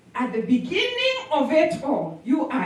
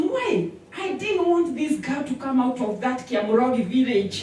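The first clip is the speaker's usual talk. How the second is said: angry devil. Retold or imitated. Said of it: "the devil is so angry".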